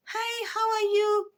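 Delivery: soft, sweet, high greeting, drawn out. Retold or imitated. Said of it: "more soft, more sweet".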